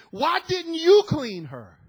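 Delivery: 1 indignant imitation. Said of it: "He said it more than one time".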